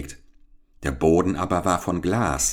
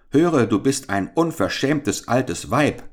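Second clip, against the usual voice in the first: indignant cry; 7 semitones higher, 3 dB louder than usual. A narrator's reading. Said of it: "rief er unmutig".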